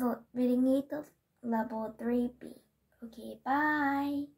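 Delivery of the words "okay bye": slow, odd-voiced bye; drawn-out goodbye. Real, not acted. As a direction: stretch out the goodbye. Repeated sign-off.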